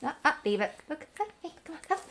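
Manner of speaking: ordinary talk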